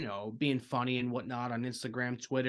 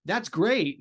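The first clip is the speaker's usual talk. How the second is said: mock polite cheer; 5 semitones higher, 5 dB louder than usual. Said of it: "be like".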